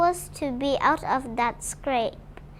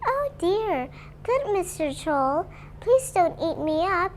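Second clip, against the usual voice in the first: much higher, pleading little-goat voice; frightened little goat; 6 semitones higher than usual. Acted. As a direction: beg the troll in a tiny voice. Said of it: "he cried".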